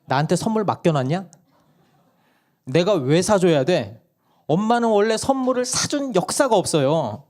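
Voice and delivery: 높고 큰 소리로 딱 자르는 엄마; 단칼에 거절하듯 몰아붙이기; 단호박 아내 흉내. Retold or imitated. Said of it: "우리 단호박 아내가". (막내를 단칼에 자르는 단호박 아내)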